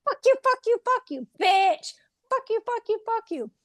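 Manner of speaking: angry little ghost cursing, trailing off; spirit cursing. Retold or imitated. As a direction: start high and spiteful, then die away. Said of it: "then we both heard it".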